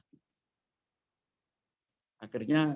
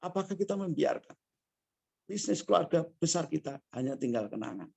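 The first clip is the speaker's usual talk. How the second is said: softer, leaning in, still pressing; softer follow-up question; 2 semitones higher, 5 dB quieter than usual. Retold or imitated. To the grieving family, a softer searching question. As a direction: drop the volume and make them think.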